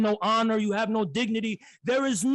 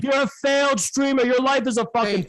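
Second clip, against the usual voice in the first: angry shout; 2 semitones higher than usual. Real, not acted. Insulting a rival streamer, shouting in anger. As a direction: yell the insult at him, raised and furious.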